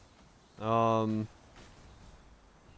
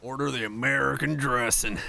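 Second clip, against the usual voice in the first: put-on American accent; 2 semitones higher, 3 dB louder than usual. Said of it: "risky to order an American accent".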